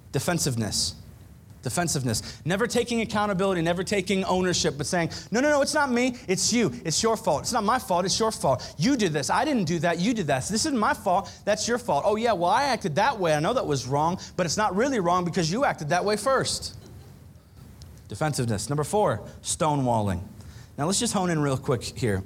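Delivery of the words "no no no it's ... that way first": whiny it's-not-my-fault protest, lightly played; a hint of a spouse dodging blame; mock defensive spouse. Mimicking a spouse who won't take blame.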